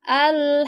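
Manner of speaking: al-haqqah with qaf pressed hard; over enunciating. Shown as a demonstration. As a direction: hit the qaf in al-haqqah firmly. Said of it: "ini bacaannya".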